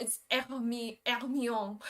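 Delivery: Hermione as French "air-mee-ON", R put in; Hermione, H dropped, attempting the French R. Shown as a demonstration. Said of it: "you're just missing the R sounds".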